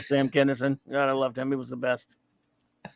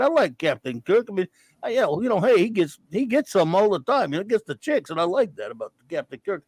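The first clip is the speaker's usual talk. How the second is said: lightly put-on Rocky boxer voice; tough-guy Philly slur, barely done; hint of a punchy boxer; half Rocky half Dice Clay; 3 semitones higher than usual. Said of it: "It's half Rocky, half Andrew Dice Clay".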